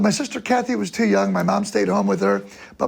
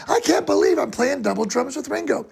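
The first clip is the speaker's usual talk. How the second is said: higher-pitched retold disbelief; freaking out; 5 semitones higher than usual. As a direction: play up being thrilled and amazed. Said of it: "I'm just freaking out going".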